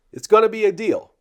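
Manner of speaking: hammed-up huckster hyping the deal; 1920s voice. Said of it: "here comes the nineteen twenties voice".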